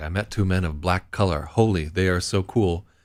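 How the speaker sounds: stilted, halting, broken non-native English. Reading out a player's tweet aloud: imitating broken English. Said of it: "broken English".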